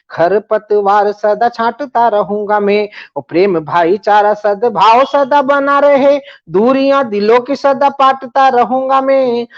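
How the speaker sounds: declaimed poetry, rhythmic and rising; poem recitation. Acted. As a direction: recite it like a stage poet.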